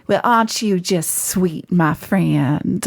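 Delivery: sweet Southern belle drawl; Southern accent. Shown as a demonstration. Actor showing off accents on request, Southern accent. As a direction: lay on a sugary Southern accent.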